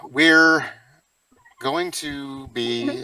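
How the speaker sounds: broken up internet audio; call dropping out. Real, not acted. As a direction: voice cutting out on a bad call. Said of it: "you're breaking up again".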